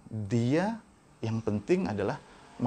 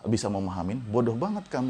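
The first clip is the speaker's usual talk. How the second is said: harsh scolding teacher; 3 semitones higher than usual. Retold or imitated. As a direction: imitate a teacher berating a child. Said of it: "ada kalimat-kalimat yang kasar".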